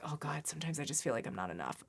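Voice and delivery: hushed self-doubt, as a demonstration; vulnerable confession. Shown as a demonstration. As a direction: quietly let out a painful feeling. Acts out voicing a painful feeling.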